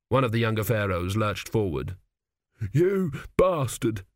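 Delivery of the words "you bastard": slow, high croaking accusation. A narrator's reading. Young dead pharaoh accusing the priest, high croak. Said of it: "he croaked".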